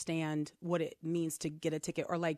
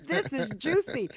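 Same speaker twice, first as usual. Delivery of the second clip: gleeful filmer; 8 semitones higher, 6 dB louder than usual. Retold or imitated. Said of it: "She's like".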